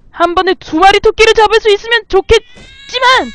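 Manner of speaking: high, loud hunting cry; loud, high, excited yell. Real, not acted. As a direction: shout it out mid-chase. Chasing rabbits, yelling mid-hunt.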